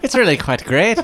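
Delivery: high, laughing "really quite great"; laughing mock. Cohost laughs, echoing the praise in a mock-posh tone. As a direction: giggle through a mock-polite echo.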